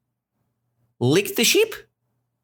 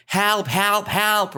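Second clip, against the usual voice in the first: high-pitched repeated cry for help; mock shout, raised in pitch rather than volume; acted shouting; 9 semitones higher, slower than usual. Shepherd boy running to the village, mock shouting. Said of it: "and he was shouting".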